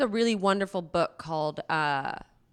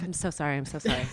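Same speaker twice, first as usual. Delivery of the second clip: apologetic voice; 5 semitones lower, 4 dB quieter, faster than usual. Retold or imitated. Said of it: "so I go like".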